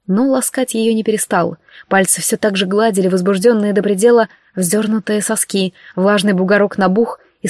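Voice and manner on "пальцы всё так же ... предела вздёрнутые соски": plain reading voice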